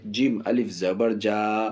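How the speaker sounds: slow, drawn-out letter-by-letter spelling; teacher's recommended spelling drill. Shown as a demonstration. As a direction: spell it slowly so pupils can follow. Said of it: "ایسے یاد کریں جو میں بتا رہا ہوں".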